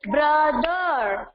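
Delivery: "Brother" in two long, even beats; teacher's syllable-by-syllable "Brother"; split into two syllables. Shown as a demonstration. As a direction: sound out "Brother" slowly in two parts. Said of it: "Brother also have two syllable".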